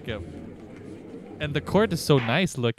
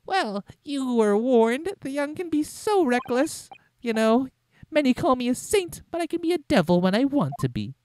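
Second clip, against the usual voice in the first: sneering villain voice; 10 semitones higher than usual. Acted. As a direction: menace the young lawyer. Voicing the villain prosecutor.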